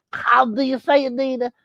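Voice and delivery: high puppet voice; puppet Bookie asking. Acted. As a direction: ask in the puppet's voice. Puppet asks Nina.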